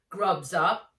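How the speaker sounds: loud jolly call to the table; a big cheerful uncle's shout; hearty call. A narrator's reading. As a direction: call everyone to eat, boisterously. Uncle announces supper.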